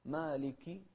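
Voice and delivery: مالك ending in a distinct -ki; clear kasra. Shown as a demonstration. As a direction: sound the short i closing مالك. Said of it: "نوضح". (مالك بكسرة واضحة على الكاف)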